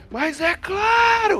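shrill, high-pitched heroic shouted yell. Speaker retells a scene where a man turns and shouts: retelling a shout. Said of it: "grita assim".

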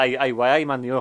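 put-on Geordie accent. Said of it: "Newcastle one".

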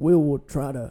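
put-on Texan politician voice. Answering a request for an impression: George Bush impression. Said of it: "Can you do a George Bush impression?".

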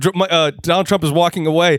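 plain

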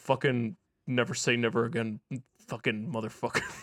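mock under-breath muttering. Retelling what they said after he closed the door, muttering under their breath. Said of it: "I just said under my breath".

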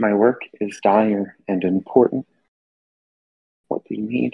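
papery voice like whispering wind, rubbing paper sheets. Narrator voicing something kneeling to the listener's level: voice like whispering wind. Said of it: "in a sort of voice that sounds like whispering wind, or maybe sheets of paper rubbing together".

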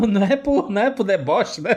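speaking through laughter. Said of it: "eu tô rindo".

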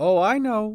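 kind, knowing, playful tone. Agnes answers Cat, who rushes past saying she can't chat, with a playful smirk. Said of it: "said Agnes with a kind but playful smirk".

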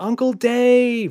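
very high scream with word stretched long. Shoved behind her uncle, she calls to him as she tumbles through the air, screaming. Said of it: "screamed Ruby as she tumbled through the air".

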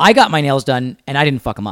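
ordinary talk, nothing marked

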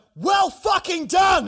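very loud, very high, top-of-the-lungs yell. Retelling congratulating a friend in a church archway: retelling a full-voice shout. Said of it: "At the top of my voice".

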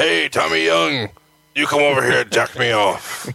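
slow, rough, creaky, dragged-out drawl. Retelling what a wrestler used to say: Barbarian impression. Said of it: "That's my Barbarian impression".

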